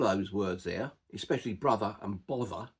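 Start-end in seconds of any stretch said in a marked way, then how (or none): 1.5-2.7 "brother and bother" with a V sound in place of TH. Shown as a demonstration. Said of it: "there's a T H in the middle".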